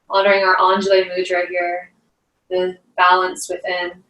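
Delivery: unhurried meditation teacher, long pauses between phrases; guided meditation. Acted. Yoga teacher guiding the class into breath and grounding, guided meditation. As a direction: guide them through each breath, leaving space.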